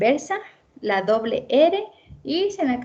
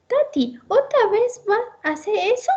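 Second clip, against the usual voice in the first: imitating the child; 12 semitones higher than usual. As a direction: mimic a small child complaining. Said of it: "la mamá me dice de esa forma". (imitando la voz de un niño, más aguda)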